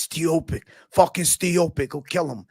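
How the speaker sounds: butcher the fighter names with gusto; light Joey Diaz rant; Joey Diaz saying names. Retold or imitated. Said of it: "Joey Diaz clip".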